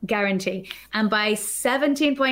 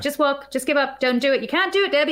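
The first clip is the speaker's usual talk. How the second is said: higher, nagging voice of self-doubt; mock taunting inner critic, pitched up; 4 semitones higher than usual. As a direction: voice the little voice telling her to quit. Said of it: "shut up, voice".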